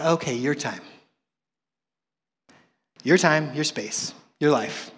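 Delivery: low, very soft giving in; resigned surrender. Retold or imitated. Man finally yielding his time to God, low and subdued. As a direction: hand it over quietly, piece by piece.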